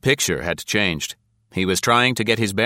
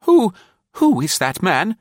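1 harsh whisper; 12 semitones higher, 5 dB louder than usual. A narrator's reading. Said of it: "harsh whisper to Nancy".

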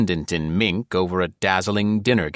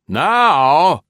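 high menacing man's voice; drawn-out threatening; 10 semitones higher, 8 dB louder than usual. A narrator's reading. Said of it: "say menacingly".

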